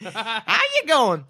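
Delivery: a light, laughing Southern American drawl on a greeting; Southern American accent. Retold or imitated. GM mocks gnomes' Southern American accent, light laugh. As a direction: toss off a mock Southern American hello. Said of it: "is like a Southern American".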